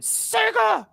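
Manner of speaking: high shouted Sega jingle; Sega yell. Retold or imitated. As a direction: belt out the Sega call. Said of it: "that dog that went".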